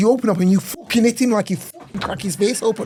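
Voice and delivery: put-on very high-pitched Liverpool Scouse accent. Retelling what a scouse man told him about fighting, scouse accent impression. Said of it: "he's Scouse".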